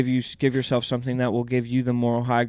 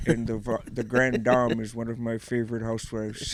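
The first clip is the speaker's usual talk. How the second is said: put-on Native American accent; 6 dB quieter than usual. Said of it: "doing his Native American voice".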